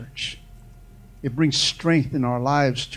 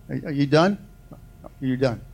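calm, patient voice; 2 semitones lower than usual. Acted. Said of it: "speak to you calmly".

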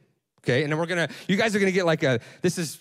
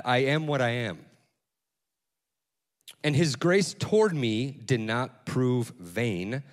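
scripture reading; 3 semitones lower than usual. Acted. Reads scripture aloud.

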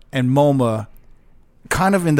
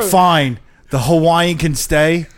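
slow, lightly imitated British owner; British accent; 2 semitones higher, slower than usual. British club owner lets the Hawaiian stay, light British accent. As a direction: grant it slowly in a mock British accent. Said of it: "You have to do the accent".

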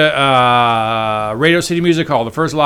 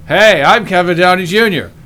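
flat, no emotion; 4 semitones higher, 4 dB louder, slower than usual. Retold or imitated. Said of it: "I need some emotion".

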